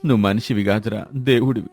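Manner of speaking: subdued, remorseful gratitude; humbled, emotional. Acted. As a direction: plead humbly, moved by the rescue. Humbled man clutching his rescuer's feet.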